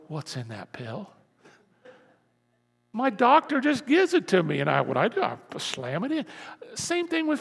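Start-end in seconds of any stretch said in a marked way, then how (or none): 0.1-1.1 muttered low, softer suspicious aside; mock suspicious question. Pastor mocking a pill skeptic, low suspicious mutter. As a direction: play a wary pill-checker quietly, half-hearted. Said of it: "I don't go".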